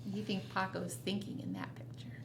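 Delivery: fast, soft whispered question. Acted. Reader whispering a question to the child, soft and fast. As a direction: lean in and whisper to the listener. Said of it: "whisper continues suspense".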